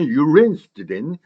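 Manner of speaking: "you rinsed in" with brief "you" and R on "rins"; short linked "you". Shown as a demonstration. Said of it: "U는 짧게".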